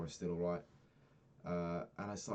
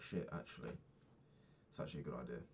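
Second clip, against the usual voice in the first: quiet grudging admission; 7 semitones lower, 9 dB quieter, faster than usual. Retold or imitated. Realizing dad's idea works.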